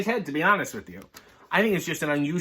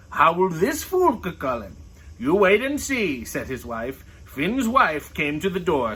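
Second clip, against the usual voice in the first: lively read-aloud voice, characters lightly voiced; story reading; 3 semitones higher than usual. Reading a picture book to viewers, lively storytelling.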